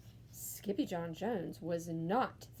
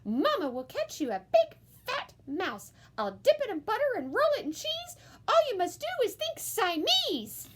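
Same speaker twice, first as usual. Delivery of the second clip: coaxing mama; 13 semitones higher, 6 dB louder than usual. A narrator's reading. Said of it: "she said".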